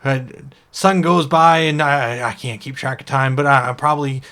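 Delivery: a small shellfish who insists he was once an orc; cursed oyster. Acted. GM voicing the cursed oyster to the elf, indignant.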